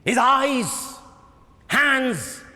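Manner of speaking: emphatic lecturing voice; impassioned director. Acted. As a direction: preach the play's meaning to the cast. Director on Becket's role.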